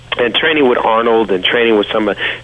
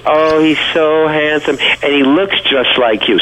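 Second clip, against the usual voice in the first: higher, slow, swooning admiration; imitated gushing waitress; 6 semitones higher, slower than usual. Waitress admiring Arnold to his young friend, imitated gushing. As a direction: gush slowly in a raised voice, mimicking her.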